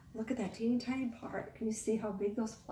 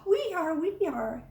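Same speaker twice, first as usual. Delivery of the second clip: mild eager yell; 4 semitones higher, 4 dB louder than usual. Acted. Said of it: "yelled the teeny tiny kids".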